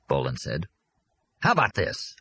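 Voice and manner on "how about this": higher-pitched, eager pitch of an idea; impatient, enthusiastic. A narrator's reading. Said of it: "Arnie said impatiently and enthusiastically".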